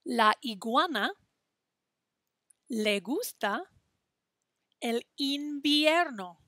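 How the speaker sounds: slow, phrase by phrase, with long pauses; slow choral rhyme. Shown as a demonstration. Teacher leading students through the rhyme slowly. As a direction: lead the rhyme bit by bit for the class to echo. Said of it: "say it with me".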